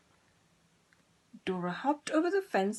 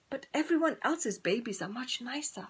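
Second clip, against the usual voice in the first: higher, whispered sad sigh; 5 semitones higher than usual. Acted. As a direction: sigh it out sadly. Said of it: "sighed Dora".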